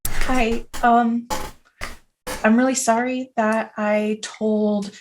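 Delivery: softly spoken, halting apology; soft, tentative sincere apology; deeply sorry. Acted. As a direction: apologize gently to an animal. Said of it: "that he is deeply sorry".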